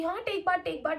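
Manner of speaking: teasing singsong repeat; mocking taunt. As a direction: senior Esther teasing the girls, mocking singsong. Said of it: "ताने सुना रही थी".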